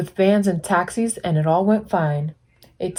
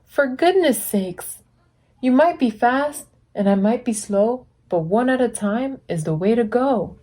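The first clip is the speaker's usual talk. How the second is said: gentle scolding; 4 semitones higher than usual. Acted. Blue scolding traffic.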